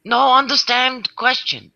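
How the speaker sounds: slow, hammy fake Japanese accent; broken English in a put-on Japanese accent. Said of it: "is that a fake Japanese accent?".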